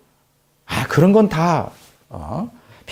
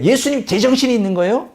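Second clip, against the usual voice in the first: high-pitched scolding, mildly heated; indignant telling-off, quickening at the end; acted rebuke; 4 semitones higher than usual. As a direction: imitate scolding your teacher in disbelief. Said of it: "막 책망하는 거예요".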